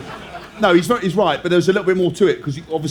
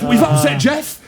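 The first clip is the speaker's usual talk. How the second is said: much higher, mock-panicked call; alarmed announcement; 9 semitones higher, slower than usual. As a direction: blurt out the bad news to the player. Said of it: "he goes".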